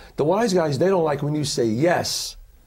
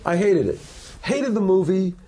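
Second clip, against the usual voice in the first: retold indignant professor; 6 semitones higher than usual. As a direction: imitate the scornful professor with some heat. Professor trashes his film.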